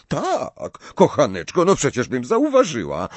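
put-on patiently humouring a worried girl. A narrator's reading. Pani Weasley answers Hermiona about owls, patiently. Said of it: "odpowiedziała cierpliwie pani Weasley".

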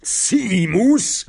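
high, urgent teacher's call; sharp high summons; roared name. A narrator's reading. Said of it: "ryknął profesor Lapin".

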